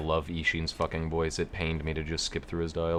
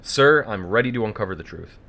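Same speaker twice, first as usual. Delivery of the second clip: bad movie dubbing; 3 semitones higher, 6 dB louder than usual. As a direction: overplay it like a cheap dub. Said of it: "I'm doing the dub voice".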